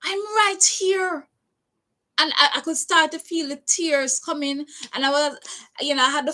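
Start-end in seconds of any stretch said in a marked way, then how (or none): 0.0-1.3 very slow, high "I'm right here", each word drawn out; retold plea. Repeating it to the nurse, a slow drawn-out plea. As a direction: lean on "right" slowly, half pleading. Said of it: "I said".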